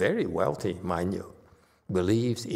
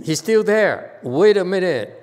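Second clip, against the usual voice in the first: loud, high burst of surprise; high-pitched, much louder astonishment; surprised outburst; 8 semitones higher, 10 dB louder than usual. Real, not acted. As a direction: exclaim it, caught off guard. Startled that caller is still present.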